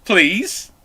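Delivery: ordinary delivery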